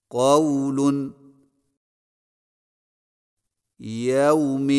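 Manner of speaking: خوف and قول with a soft, unstretched aw; soft diphthong drill. Shown as a demonstration. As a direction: say each word gently, the aw not drawn out. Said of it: "صحیح تلفظ کے ساتھ ادا کیجیے". (واو لین نرمی سے، کھینچے بغیر)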